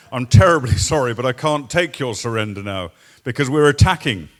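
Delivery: mock upper-class British apology, punched at the start; British upper-class accent. Officer turning down a surrender mid-attack, British upper-class accent. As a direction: politely refuse in a lightly exaggerated upper-class British accent. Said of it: "in a typical British upper-class accent".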